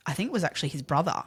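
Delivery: ordinary delivery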